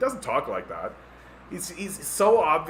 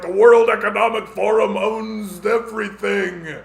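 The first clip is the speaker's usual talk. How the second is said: louder and higher, alarmed; mock conspiracy alarm; 5 semitones higher, 8 dB louder than usual. Mock believer, about WEF, loud alarm. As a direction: declare it in panic. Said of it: "everybody was like".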